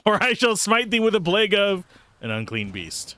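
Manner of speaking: high, grand mock decree; hammed-up smiting deity; mock biblical prophet. God threatens a plague.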